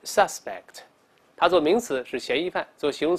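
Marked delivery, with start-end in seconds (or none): 0.1-0.8 "suspect" as an adjective, sus- stressed; adjective, stress on first syllable. Shown as a demonstration. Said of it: "我们大声再读一下". (形容词suspect，重音在前)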